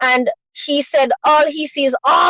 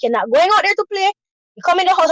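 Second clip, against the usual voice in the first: snapped scolding, higher and fast; a mother laying down the law; scolding son; 5 semitones higher, much faster than usual. Retold or imitated.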